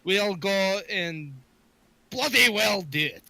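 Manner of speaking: loud, insistent interruption; cutting her off. Acted. Adventurer cuts companion off to accept the job, insistent. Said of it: "I cut her off immediately".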